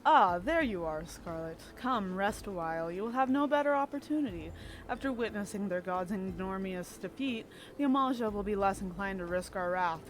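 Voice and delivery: lightly voiced suave rogue, unhurried; Thancred. Streamer reading Thancred's lines to Scarlet, lightly voiced rogue. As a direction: read Thancred's lines as the charming spy. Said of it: "I could do a really good Thancred voice".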